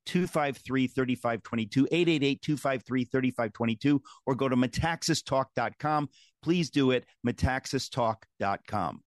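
upbeat radio ad read. Acted. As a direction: read it like a sponsor spot. Host reads ad callout.

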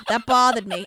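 a light hint of a rumpled TV detective; lightly done detective mutter; Columbo. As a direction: muse it like a TV detective. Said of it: "Now it's Columbo".

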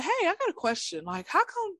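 mock her earnest we-as-women tone; a touch of a preachy young woman; imitating the girl. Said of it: "I feel like that's how she talks".

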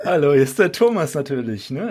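caller on a phone line; thin phone-line sound; over the phone. Real, not acted. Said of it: "den Anrufer mit reinnehmen".

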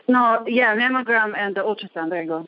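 breathless after running upstairs; talking while catching breath. Real, not acted. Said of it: "I'm out of breath".

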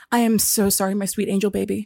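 softly imitated sugary support agent; mock sweet apology. Support agent apologizes to customer, mock tender. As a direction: coo it lightly, sending up the kindness. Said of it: "The kindest, sweetest messages".

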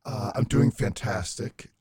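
disguised robotic voice. Real, not acted. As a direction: voice masked to sound like a robot. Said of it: "I probably sound like a robot".

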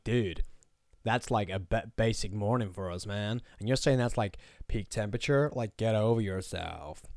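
lightly put-on Pacific Coast accent; weird West Coast accent. Overseas listeners scoff at UK heat, mock West Coast accent. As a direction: imitate a West Coast dude, loosely. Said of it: "Pacific Coast, West Coast, weird accent".

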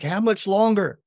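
put-on high, drawn-up child's plea; desperate plea. Son begging dad near end of plank, high-pitched imitated plea. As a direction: imitate a struggling kid begging to know.

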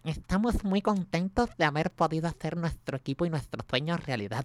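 slow, self-satisfied press-conference Spanish; smug Beckham voice. Retold or imitated. Host contrasting Beckham's smugger press voice, slow and self-satisfied. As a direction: sound pleased with yourself as a star. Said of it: "Beckham es como más come mierda".

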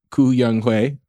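put-on "Koo Young Hoi" with the family name Koo first, Korean style; Korean name order. Shown as a demonstration. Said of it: "or in Korean".

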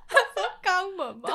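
laughing repeat. Real, not acted. (边笑边重复)

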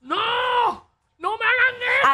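high mocking voice of the man; pleading in a high voice. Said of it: "El tipo".

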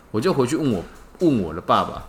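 usual speaking voice

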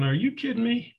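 can't believe what he's hearing; incredulous outburst. Retold or imitated. Confronting the man who quit.

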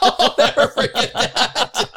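high, loud words through real laughter; laughing hard. Real, not acted. Storyteller cracking up at his own memory, laughing hard. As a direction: crack up while you speak.

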